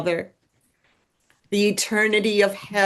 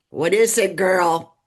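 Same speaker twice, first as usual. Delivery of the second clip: a bit louder, curt and hostile; mean and foul; 4 dB louder than usual. Retold or imitated. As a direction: bark it like a mean border agent, lightly. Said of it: "mean and foul".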